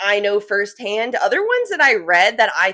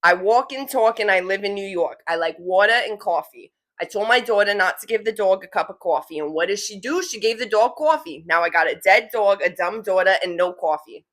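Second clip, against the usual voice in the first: thick New York vowels, dropped r's; New York accent; 2 semitones lower than usual. Shown as a demonstration. Demonstrating the coffee saying for listeners, New York accent. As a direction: say it like a native New Yorker. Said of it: "Now with the accent".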